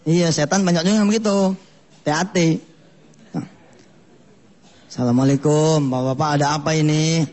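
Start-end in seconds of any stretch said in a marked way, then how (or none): 4.9-7.3 smooth pious stranger. Acted. Pious devil arrives again.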